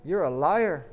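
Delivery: storyteller's restrained scream of disbelief. A narrator's reading. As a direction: draw it out, then raise the voice in accusation. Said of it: "screams the man".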